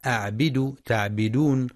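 أعبد تعبدون with the ب said bi; wrong kasra. Shown as a demonstration. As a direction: say the ب with an i vowel as a mistake. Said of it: "يخطئ من يقرأ بكسر الباء".

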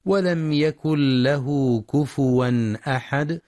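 slow, measured tajweed recitation; Quranic recitation. Shown as a demonstration. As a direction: recite the verse slowly with tajweed. Quran verse recited in lesson. (تلاوة مجودة بطيئة)

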